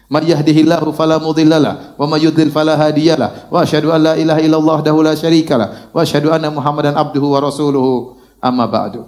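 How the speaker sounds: low, measured recitation on a level tone; steady Arabic khutbah opening; Arabic sermon-opening recitation. Acted. Continues the recited formula.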